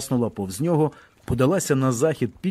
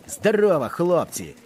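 barked Russian soldier greeting; 6 semitones higher than usual. A narrator's reading. Roman greets the fleeing soldiers with a mocking bark. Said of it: "гаркнув він на московський солдатський манір".

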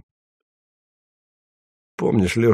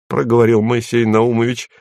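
ordinary delivery, nothing marked

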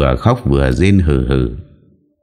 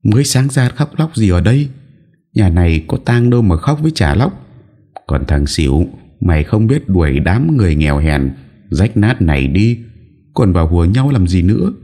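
high, sharp scolding from afar; mild mock yell of a haughty young woman; scolding shout; 5 semitones higher than usual. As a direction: snap at them to stop the crying. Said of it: "có tiếng quát".

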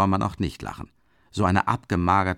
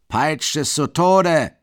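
loud, slow, higher raging yell; furious shout; 8 semitones higher, 7 dB louder, slower than usual. A narrator's reading. Mikolka screaming at friends to whip the horse, furious. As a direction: roar it in fury. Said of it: "schreit Mikolka".

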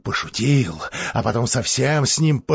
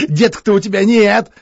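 loud, high, laughing jeer; mock him through a laugh; Grigory laughs at childless brother; laughing taunt; 9 semitones higher, 8 dB louder than usual. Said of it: "вдруг засмеялся".

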